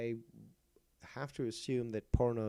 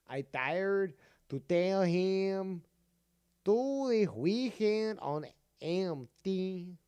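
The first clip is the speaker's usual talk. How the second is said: put-on slow, high, loud Latino accent; 7 semitones higher, 5 dB louder, much slower than usual. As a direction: drawl it in a mock Latino accent. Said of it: "Let's do it in your, uh, Latino accent".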